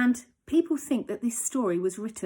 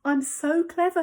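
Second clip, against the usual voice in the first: smug dog; 7 semitones higher, 4 dB louder than usual. Acted. Dog's smug thought.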